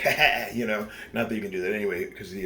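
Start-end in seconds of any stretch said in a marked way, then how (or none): 0.0-0.5 mock laugh. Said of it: "and be like".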